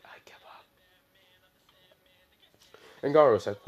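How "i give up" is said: whispered give-up, barely breathed; quiet surrender. Retold or imitated. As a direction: whisper it like you're beaten. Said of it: "he said it so quiet".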